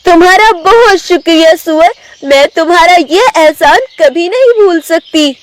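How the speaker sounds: high-pitched tigress voice; grateful tigress. Acted. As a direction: thank the pig sincerely, pitched high. (ऊँची आवाज़ में आभारी बाघिन)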